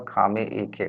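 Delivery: "खामे ए खे" recited as consonant, vowel, then joined syllable; teacher demonstrating how "खामे ए खे" is built; spelling-out pronunciation. Shown as a demonstration. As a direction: sound out "खामे ए खे" piece by piece. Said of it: "इसका उच्चारण होगा".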